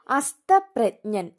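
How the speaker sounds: അസ്തപ്രജ്ഞൻ said very slowly, falling; slow announced word. Shown as a demonstration. Teacher announcing the word to students, very slowly. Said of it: "ജായും ഞായും".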